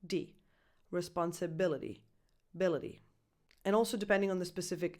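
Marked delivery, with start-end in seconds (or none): 0.9-2.0 Responsibility, the T a quick soft D. Shown as a demonstration. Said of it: "soft, fast D". 2.5-3.0 ability with the T a quick soft D. Shown as a demonstration. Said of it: "soft, fast D".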